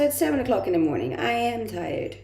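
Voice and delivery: ordinary talk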